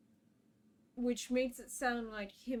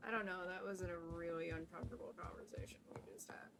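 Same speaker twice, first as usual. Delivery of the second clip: soft, fast unvoiced whisper; whispered aside; 3 semitones lower, 8 dB quieter, much faster than usual. Real, not acted. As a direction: whisper it quickly to yourself.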